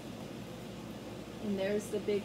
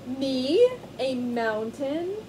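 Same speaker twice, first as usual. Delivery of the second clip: amused disbelief; 2 semitones higher, 5 dB louder, much slower than usual. Acted. Lion amused by comparison.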